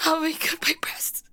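pained whisper. Acted. Pained gasp after the blow.

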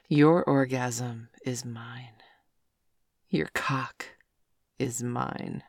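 slow, husky whispered claim; possessive whisper. Acted. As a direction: whisper it like you own them.

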